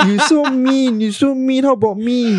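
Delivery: the lady whines at the chef, laughing; mock complaint. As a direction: complain playfully, half laughing.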